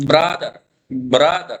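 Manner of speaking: slow "برادر" with a short, spread first vowel; "برادر" as a careful short-vowel example; zabar vowel sound. Shown as a demonstration. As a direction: say "برادر" slowly, mouth drawn sideways on the first vowel. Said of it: "زبر کے لیے منہ ادھر کو".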